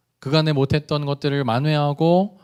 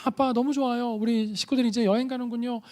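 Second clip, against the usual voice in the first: put-on higher, softer voice of a thrilled child; excited little son; 7 semitones higher, 5 dB quieter than usual. Son hearing about the Spain trip, mock excited child voice. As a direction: imitate a boy jumping for joy. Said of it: "아들은 ... 펄쩍펄쩍 뛰면서".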